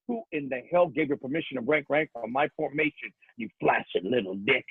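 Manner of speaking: Marine drill sergeant tearing into recruits; drill instructor rant. Acted. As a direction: bark it at the platoon with rhythm. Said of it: "I go".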